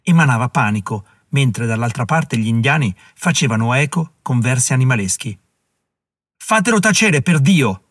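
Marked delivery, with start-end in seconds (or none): 6.4-7.8 grido acuto e forte; urlo. Acted. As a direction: urla esasperato di farlo tacere. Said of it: "urlò qualcuno". (urlo esasperato)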